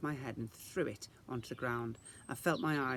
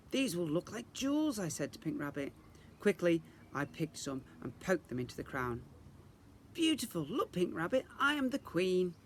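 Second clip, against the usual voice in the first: put-on high, delighted girl's voice; lightly voiced girl playing queen; Isadora, proud; 5 semitones higher than usual. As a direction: show off the crown grandly. Isadora proud of her crown.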